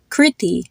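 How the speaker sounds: "Kriti" as KRIH-tee; short I, long I. Shown as a demonstration. Teacher using own name as example, "Kriti" short then long I. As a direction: say "Kriti" with kit's vowel, then tree's. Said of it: "first I was short and the second I was long".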